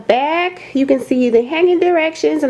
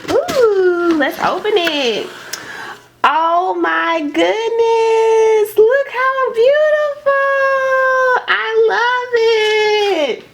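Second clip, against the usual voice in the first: high, slow, drawn-out gush of delight; 11 semitones higher, much slower than usual. Real, not acted. Opening the box for viewers, high slow swooning delight. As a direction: swoon over every piece as it comes out.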